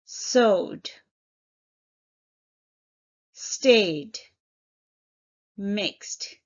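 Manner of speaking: Sewed, stayed, mixed, each word set apart and said clearly; modelled past forms. Shown as a demonstration. Teacher modelling sewed, stayed and mixed, distinctly. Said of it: "We simply add E D in all cases".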